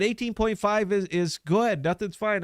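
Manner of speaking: high, breezy voice for the devs; mocking dev team. Devs answering the boss about the phone version, high and dismissive. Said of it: "And they said".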